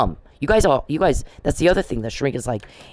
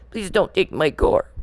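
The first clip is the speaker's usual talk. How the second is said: mock pleading victim; 8 semitones higher than usual. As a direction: whine like a meek victim begging. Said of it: "I don't go".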